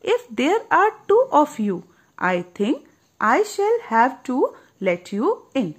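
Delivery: slow, gentle voice yielding; rosebud giving in. Acted. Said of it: "says the little rosebud". (नरमी से मान जाती कली)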